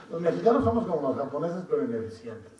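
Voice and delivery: dicho entre risas, más alto y agudo; riendo. Real, not acted. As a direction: broma contada riéndose a carcajadas. Broma sobre el carácter mexicano. (entre carcajadas)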